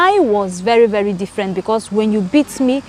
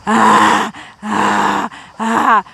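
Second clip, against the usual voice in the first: mock crying cries; much slower than usual. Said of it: "I will stop doing".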